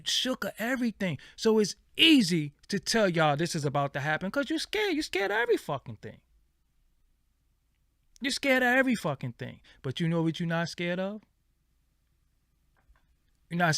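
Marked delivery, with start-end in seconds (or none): 4.3-9.6 much higher, fast and soft; high quick mocking jab; mocking sing-song. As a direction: tease them, sing-song. Mocking the audience.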